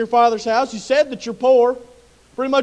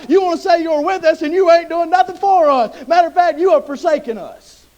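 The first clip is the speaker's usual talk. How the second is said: indignant outburst; 4 semitones higher than usual. Acted. Gideon complaining hotly to the Lord. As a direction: swell up like a bullfrog and complain. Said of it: "Gideon swelled up like a bullfrog".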